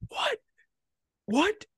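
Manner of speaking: high, incredulous mock yelp; retold screaming disbelief. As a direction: re-enact stunned shrieking, pitch jumping up. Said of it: "I'm screaming on the".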